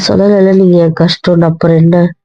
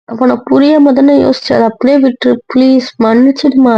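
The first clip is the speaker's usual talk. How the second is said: higher, begging for forgiveness; pleading apology; 5 semitones higher than usual. Acted. Wife begging mother-in-law not to be angry, pleading. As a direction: plead with her to let it go. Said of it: "கெஞ்சி கேக்குறேன்".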